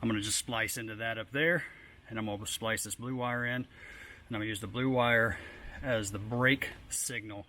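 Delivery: winded, catching breath; talking while short of breath. Real, not acted. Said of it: "I'm a little bit out of breath".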